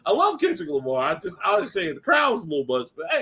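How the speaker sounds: a lightly voiced hasty retreat; backpedaling to a friend. The host backing down to Cole Jackson, mock sheepish and high. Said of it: "And I'm just like".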